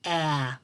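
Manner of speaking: "a" wie in apple, kurz gesprochen; short a as in apple. Shown as a demonstration. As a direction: say "a" like the start of apple. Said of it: "Everybody say".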